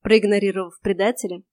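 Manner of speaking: ordinary delivery, nothing marked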